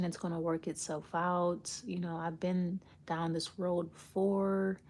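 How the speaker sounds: soft, slow, soothing reassurance; calm zen reassurance. Retold or imitated. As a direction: play it mock-serene, like an unflappable guru. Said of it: "they can come off very calm and, like, zen and say".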